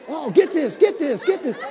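excited. Retold or imitated. Cameramen excited at trumpet.

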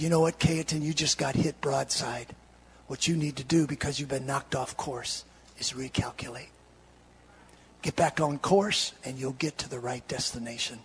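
low, soft, gentle counsel; patient. Acted. God counseling the knocked-down preacher, patient and soft. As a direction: reassure quietly, voice dropped right down. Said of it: "he's patient with me".

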